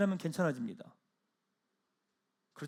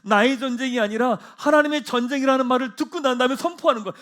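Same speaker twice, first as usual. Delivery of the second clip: usual speaking voice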